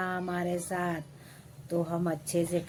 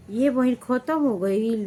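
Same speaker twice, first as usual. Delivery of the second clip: higher, louder fake astonishment; mock surprised neighbour; 5 semitones higher, 7 dB louder than usual. Neighbour faking surprise the gas ran out, mock voice. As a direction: gasp it out sweetly. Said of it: "मैं बोलती हूँ".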